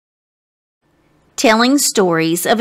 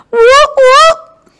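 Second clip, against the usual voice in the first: loud high whooping cheer; louder whoop; 7 dB louder than usual. Pretend. Narrator cheering Austin louder, loud whoop. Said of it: "a little louder".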